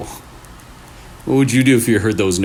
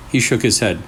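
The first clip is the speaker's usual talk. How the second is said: creepy story narration. A narrator's reading. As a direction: draw the listener into a spooky tale. Reads second creepy story.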